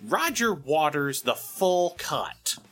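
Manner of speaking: a light Nostalgia Critic show opener. Pretend. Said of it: "nostalgia critic vibe".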